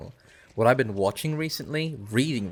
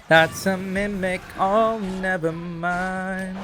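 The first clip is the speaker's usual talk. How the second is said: put-on high voice; 8 semitones higher, much slower than usual.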